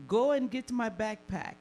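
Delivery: put-on Taliban boyfriend. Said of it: "He was like".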